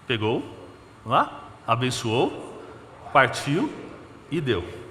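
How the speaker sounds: slow, sing-song teaching of each step; children's class teacher. Shown as a demonstration. Preacher explaining to the church like a Sunday school class, slow sing-song. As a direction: spell it out like for small kids. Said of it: "aula agora de sala infantil".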